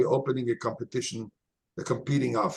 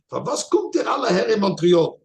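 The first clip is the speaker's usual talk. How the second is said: retold question in Yiddish; 5 semitones higher, 5 dB louder than usual.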